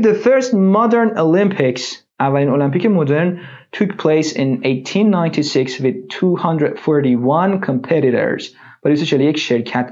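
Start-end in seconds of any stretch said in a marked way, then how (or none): 0.0-8.6 slow textbook reading. Shown as a demonstration. Teacher reads text slowly.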